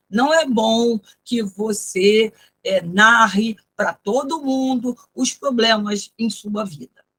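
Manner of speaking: slow, stiff literal reading; literal word-by-word translation. Shown as a demonstration. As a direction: read it like a clumsy word-for-word translation. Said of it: "ficaria assim, ó". (tradução literal, lenta e travada)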